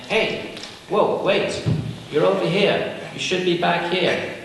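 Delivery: a lightly voiced inner nudge, hey wait. Shown as a demonstration. Teacher voicing the mind's watchful inner voice, light alert call. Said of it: "this little voice comes up in the, in the mind saying".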